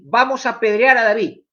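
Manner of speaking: half-acted grumbling mob; angry murmuring crowd. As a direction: voice the men blaming David, lightly heated. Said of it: "y empezaron a decir".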